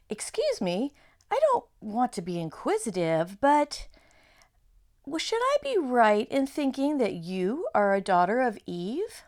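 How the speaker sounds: a hint of a polite, nervous faun; gently curious faun; lightly voiced fawn. Reads fawn dialogue.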